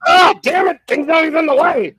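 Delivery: loud, high exasperated outburst; frustrated shout. Real, not acted. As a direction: blurt it out in real frustration. Frustrated outburst at Kelce joke.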